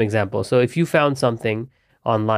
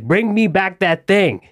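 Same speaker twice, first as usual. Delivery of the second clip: commanding; 5 semitones higher, slower than usual. Retold or imitated. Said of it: "slave driving these people".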